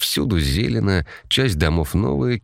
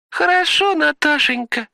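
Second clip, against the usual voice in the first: man in a very high falsetto; squeaky little voice. Acted. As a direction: squeak it out like a girl. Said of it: "писклявым голоском ответил Ваня".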